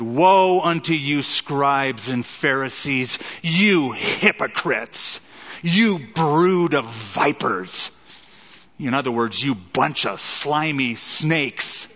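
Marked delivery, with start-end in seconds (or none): 0.0-7.9 slow, weighty rebuke with woe punched out; stern denunciation. Retold or imitated. Preacher voicing Jesus to the Pharisees, slow stern denunciation. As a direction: thunder it at hypocrites, word by word.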